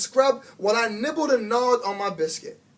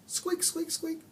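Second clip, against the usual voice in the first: very high, soft squeaking; hamster squeaks; 10 semitones higher, 8 dB quieter, slower than usual. A narrator's reading. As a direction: sing it like a tiny hamster.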